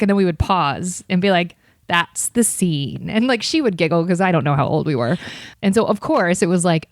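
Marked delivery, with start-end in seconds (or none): 1.9-3.1 mock New York accent. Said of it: "very stereotypical New York accent".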